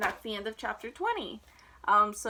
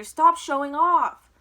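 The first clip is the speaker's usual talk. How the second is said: much louder, slow scolding; scolding mother; 4 semitones higher, 12 dB louder, slower than usual. A narrator's reading. Mother scolds showing-off Avery, slow and loud. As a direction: drag out a stern rebuke. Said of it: "cried his mother".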